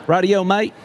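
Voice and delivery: badly faked Aussie accent; terrible Australian accent. Panelist naming his bull-riding pick in a bad Australian accent. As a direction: have a half-successful go at Australian. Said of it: "That was a terrible accent".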